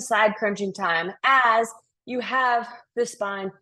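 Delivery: breathless from exertion; winded, pushing through the pose; out of breath. Real, not acted. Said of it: "I'm out of breath, guys".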